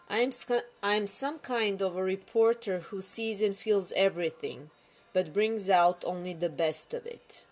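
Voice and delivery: lightly performed story narration; story reading. Acted. Author reading a story to online followers, measured narration. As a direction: read your story aloud in measured phrases. Reads own story aloud.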